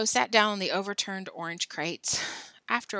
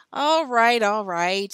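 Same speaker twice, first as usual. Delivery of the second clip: louder, hurried all right; hasty giving in; 8 dB louder, slower than usual. A narrator's reading. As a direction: cave in quickly, stalling. Billy giving in.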